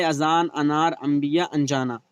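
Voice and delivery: "अजान, अनार" with a short opening a; don't draw out the first vowel of "अजान, अनार, अंबिया, अनजाना"; short initial a in "अनार", not aa; unstretched alif. Shown as a demonstration. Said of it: "खींच कर ना पढ़ी जाए".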